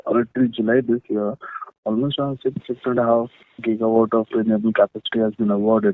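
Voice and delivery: very low, faint voice; barely audible. Real, not acted. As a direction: speak faintly, as if far from the mic. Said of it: "Your voice is very low".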